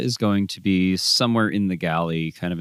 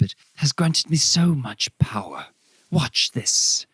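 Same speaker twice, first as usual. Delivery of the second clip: higher, proud showy voice; boastful mystic; 3 semitones higher than usual. Acted. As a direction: show off the orb grandly.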